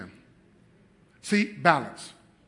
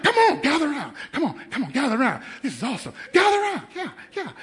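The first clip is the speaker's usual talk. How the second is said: higher, laughing hype; excited, laughing; 8 semitones higher, much faster than usual. Retold or imitated. Dad gathering the family around, higher and laughing. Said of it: "I'm like".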